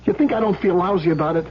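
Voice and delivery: rising, pleading, voice climbing high on the last words; anguished plea. Acted. Husband pleads his guilt to the hitman, anguished. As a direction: beg to be believed, guilt breaking through.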